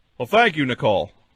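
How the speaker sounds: put-on on-air sports radio announcer voice. Thanking a caller for her cheer: put-on radio announcer voice. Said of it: "Now I can stop talking like an announcer".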